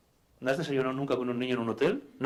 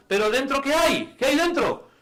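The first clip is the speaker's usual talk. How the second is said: suspenseful storyteller; 11 semitones higher, 5 dB louder than usual. Acted.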